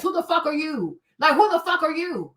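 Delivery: loud confrontational challenge; mock Minister Farrakhan telling off; Farrakhan confronting. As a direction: demand who they are, rising in force. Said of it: "it's kinda like Minister Farrakhan".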